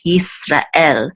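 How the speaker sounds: Yisrael with each syllable kept clear; distinct syllables. Shown as a demonstration. Teacher stressing Hebrew syllables stay distinct. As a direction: keep Ra and El apart in Yisrael. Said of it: "they're much more distinct".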